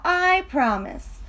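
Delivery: high coaxing pigtail voice; urging pigtail. Acted. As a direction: coax him into one little tug. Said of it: "said the pigtail".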